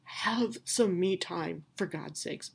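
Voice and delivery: put-on slow, breathy whispered baby demanding space; a mock-exasperated infant hissing to be put down; baby voiced as fed up. Mother voices her crying baby as fed up, half-whispered. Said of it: "She was like".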